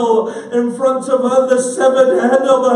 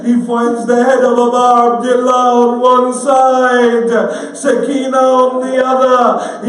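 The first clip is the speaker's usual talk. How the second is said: preaching at full force; 4 dB louder than usual. Acted. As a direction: drive the elegy to its peak. Climax of the majlis narration.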